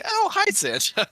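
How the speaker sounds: put-on sweet toddler greeting Santa; daughter's voice. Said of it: "she's like".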